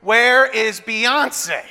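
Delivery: lightly mimicked child, drawn out very slowly; insistent daughter. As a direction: stretch it out like an insistent kid. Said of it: "the question that my eight-year-old daughter is asking".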